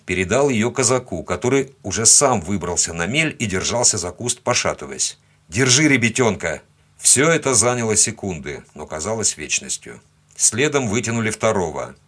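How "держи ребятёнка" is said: urgent handover order. Acted. Handing child over in river rescue.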